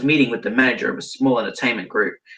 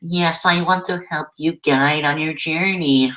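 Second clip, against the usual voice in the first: high, put-on angelic voice; guardian angel voice; 5 semitones higher than usual. Harambe offering to guide the narrator, guardian angel voice. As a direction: play a guiding spirit in a raised voice.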